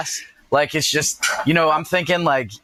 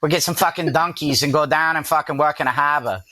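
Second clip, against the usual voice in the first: put-on Boston accent. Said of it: "a Boston accent".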